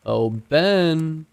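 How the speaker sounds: high, drawn-out menacing call; sinister sing-song call. A narrator's reading. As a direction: lure him out with false sweetness. Sinister father calling sweetly.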